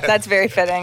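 said through a laugh; amused. Real, not acted. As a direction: laugh lightly as you say it. Amused reaction amid shared laughter.

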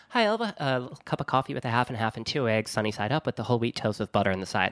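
fast customer order; rattled-off order. Retold or imitated. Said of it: "when a diner waitress says".

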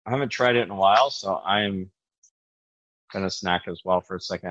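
chewing while talking; mouth full. Real, not acted. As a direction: talk through a mouthful. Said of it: "I'm sorry if you can hear me chewing".

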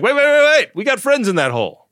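high, loud burst of repeated waits; urgent plea. Retold or imitated. Crew yelling at the paver to stop, urgent plea. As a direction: frantically try to stop them.

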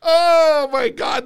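long, slow, high oh my God; embarrassed groan. Real, not acted. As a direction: drag it out in disbelief. Reacting to failed prank call.

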